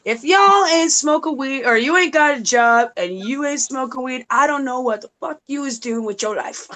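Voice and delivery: Cat Williams bit. Retold or imitated. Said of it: "Love that guy".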